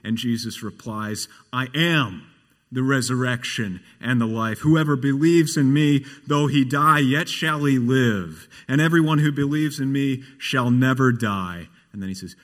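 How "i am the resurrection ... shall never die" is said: weighty, ringing scripture quotation; solemn declaration. Retold or imitated. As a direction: proclaim it firmly, building in force. Jesus's declaration, quoted by preacher.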